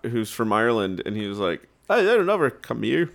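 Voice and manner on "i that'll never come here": put-on a light, half-hearted Irish accent on the quote; just a hint of an Irish friend's accent. Podcast guest quoting his friend from Ireland, in a light Irish accent. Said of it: "That's my Irish accent right there".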